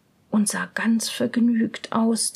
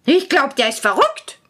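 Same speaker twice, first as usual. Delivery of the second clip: a louder huff of a princess; indignant princess; 5 dB louder than usual. Acted. Princess hears a hundred kisses, indignant. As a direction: scoff at the demand. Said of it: "sagte die Prinzessin".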